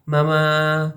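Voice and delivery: mama with a clear stressed open a; Spanish mama, bright stressed a. Shown as a demonstration. Teaching a vowel, Spanish mama with a stressed a. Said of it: "like the A in Spanish".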